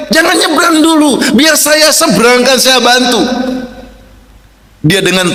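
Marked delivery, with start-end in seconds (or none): 0.1-3.2 higher, calling across the street; mild calling out. Retold or imitated. Helper calling to a person about to cross, mildly raised. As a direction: call out to stop someone crossing. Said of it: "orang itu diteriakin".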